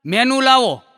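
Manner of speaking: calling out. Retold or imitated. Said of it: "મેં વેઇટરને બૂમ મારીને કીધું".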